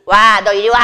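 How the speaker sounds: loud, acted "come over here"; punchy mock command; bossy summons. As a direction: play a domineering character ordering someone over. Acts out bossy consonant pulling another.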